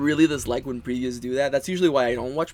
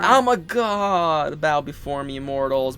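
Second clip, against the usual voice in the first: grandiose god voice; much slower than usual. Retold or imitated. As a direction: lord it over the mortals. Mocking a godlike villain.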